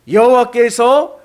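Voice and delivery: loud, slow solemn proclamation; scripture reading. Acted. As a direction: proclaim God's word. Reads scripture loudly. (장엄한 말씀 낭독)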